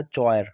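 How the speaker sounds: "चॉयर" starting with a ch sound; naive spelling reading. Shown as a demonstration. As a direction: misread "चॉयर" as choy-er. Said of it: "ज़ाहिरी तौर पर तो ये आपको दिखाई देगा". ("चॉयर", च से ग़लत उच्चारण)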